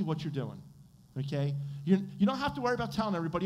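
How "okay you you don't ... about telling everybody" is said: normal talking voice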